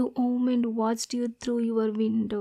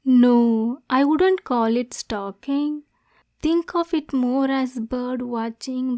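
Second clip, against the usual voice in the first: louder, quick denial; defensive denial; 4 dB louder than usual. Acted. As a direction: cut in fast to deny it.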